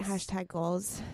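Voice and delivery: slow, dreamy hashtag goals; drawn out. Real, not acted. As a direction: savor it admiringly. Drawn-out admiring catchphrase.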